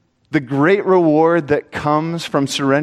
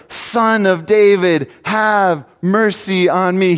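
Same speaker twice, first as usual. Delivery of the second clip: crying out; 5 semitones higher, slower than usual. Acted. Bartimaeus crying out in sermon.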